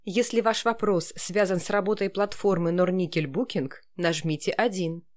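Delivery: even automated phone menu read. Shown as a demonstration. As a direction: read it like a call centre prompt. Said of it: "А как нужно вам?".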